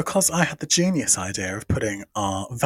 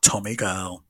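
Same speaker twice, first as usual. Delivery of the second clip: whispered parody sign-off; 6 semitones lower, 3 dB quieter, slower than usual. Pretend. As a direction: whisper it as a joke echo.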